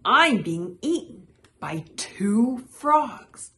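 high, loud complaint from a tiny fly; squealing. A narrator's reading. Caught fly complaining, a high loud squeal. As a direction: wail it in mock distress. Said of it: "squealed the fly".

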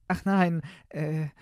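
put-on high, hesitant girlish voice; uneasy princess. Princess answers her father, high and hesitant.

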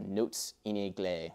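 lightly attempted French accent; bad French accent. Shown as a demonstration. Teacher naming a French Baroque term, poor French accent. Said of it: "That is the worst French a-, accent ever".

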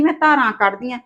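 ਧਾਰਾਂ rising in a soft, sneering imitation; mock her words under your breath; mocking quote. Daughter-in-law mocking mother-in-law's words quietly. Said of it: "ਕਹਿੰਦੀ".

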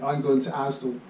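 Asdal with an L tacked on the end; Bristolian L. Shown as a demonstration. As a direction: say Asdal, Bristol style, with a final L. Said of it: "you've got to put an L on everything".

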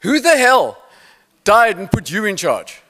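a hint of Joburg accent, challenging; hint of a Joburg accent, heckling. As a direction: lightly do a gruff Joburg player heckling. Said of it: "a Joburg accent said".

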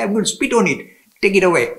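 loud, laughing-edged mock defiance; defiant refusal. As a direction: throw the offer back at her. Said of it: "You can only talk to the Mother Goddess like".

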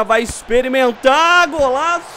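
rising, shouting goal call; explosive goal commentary. Real, not acted. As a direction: erupt as the shot goes in. Goal scored in game commentary.

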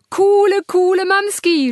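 very high, loud yell that cracks; voice cracking shout. Acted. Son Robby yells at his mother, voice cracking. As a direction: squeal it with a breaking teen voice. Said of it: "schreit er mit überkieksender Stimme".

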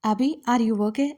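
slow anxious question; a touch of alarm, slowly; worried. Acted. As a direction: check on him with concern. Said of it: "కంగారు పడిపోతూ".

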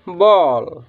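"बॉल" with a long rounded aw; model pronunciation. Shown as a demonstration. Teacher shows how to read it, "बॉल" with long aw. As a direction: sound out "बॉल" as a model word. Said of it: "तो इसको हम क्या पढ़ेंगे".

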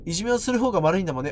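いじめをする方が悪いんだもんね rattled off fast, mocking; mocking the girl's repeated line, said fast. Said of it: "お前ずっとそれ言ってるやん".

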